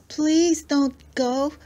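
slow, high, pleading monster voice; gargly creature voice. Acted. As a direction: beg him to stay like a trapped creature. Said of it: "deep and gargly and rather frightening".

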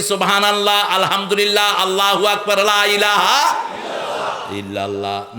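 সুবহানাল্লাহ said loud and each syllable distinct; clear pronunciation. Shown as a demonstration. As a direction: enunciate every word of the dhikr. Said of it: "মুখে স্পষ্ট উচ্চারণ করবি".

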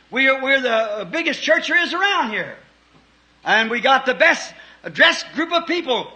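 puffed-up member showing off to the preacher; boastful churchgoer. Acted. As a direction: brag about your big fine church. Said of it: "You say".

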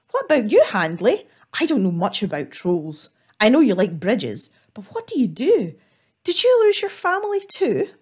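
lightly voiced little squirrel, curious; a hint of a small creature asking questions. Squirrel asking the troll about family, light squirrel voice.

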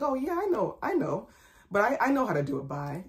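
casual acknowledgment starting high, easing down; not snappy. Shown as a demonstration. Employee showing how she answered the owner, casually unbothered. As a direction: brush it off lightly, without rudeness. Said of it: "I said it just like that".

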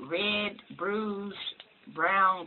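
pen tip at lips; speaking with lips stretched; mouth pulled open by fingers. Real, not acted. Seen 0: Pen and fingers stretch mouth corners while she speaks.

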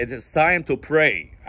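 very slow, careful p in pray; correct pronunciation. Shown as a demonstration. What the man means to say, correct pronunciation. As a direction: PRAY with a clear puffed p. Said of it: "هو عايز يقول".

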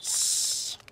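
whispered shh, very soft; hushing whisper. Acted. Princess hushing the baby near the rabbits, whispered. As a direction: hush them so the rabbits stay calm.

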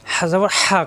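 হা squeezed out from the throat; pressed throaty ha. Shown as a demonstration. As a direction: push the হ of হা through a tightened throat. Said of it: "কণ্ঠনালীতে চাপ". (কণ্ঠনালীতে চাপ দিয়ে হা)

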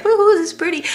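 high-pitched woohoo of delight; playful little whoop at the view; retold cheer. Retells cheering in the line.

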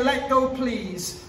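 slow, gentle let go please; polite request. Shown as a demonstration. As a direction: ask nicely and calmly. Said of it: "I even like to say".

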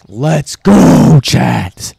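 loud, high, fast cheer; excited shout. Real, not acted. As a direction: celebrate hard to the audience. Celebrating hiring to chat.

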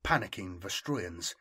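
measured, dramatic battle narration; story narration. A narrator's reading. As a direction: narrate the battle with deliberate phrasing. Reads battle story aloud.

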